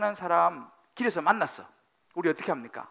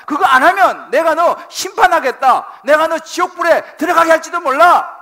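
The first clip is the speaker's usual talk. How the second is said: God's stern warning; 11 semitones higher, 17 dB louder than usual. Acted. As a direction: thunder the judgment at the sinner. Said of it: "경고하시는 겁니다".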